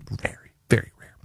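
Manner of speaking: breathy unvoiced whisper. Host whispering his steak order to listeners. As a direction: lean in and whisper it.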